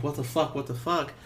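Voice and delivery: usual speaking voice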